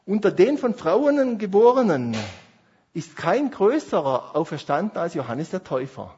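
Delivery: loud, slow, weighty proclamation of the verse; solemn scripture reading. Shown as a demonstration. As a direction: read it out like a pulpit announcement. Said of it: "Jetzt steht in Matthäus elf elf". (feierlich und langsam vorgelesenes Bibelwort)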